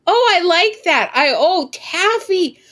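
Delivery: high, loud, laughing joy over candy; delighted squeal. Real, not acted. Streamer finds candy in the game, squealing with laughing delight. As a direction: squeal with glee at the prize.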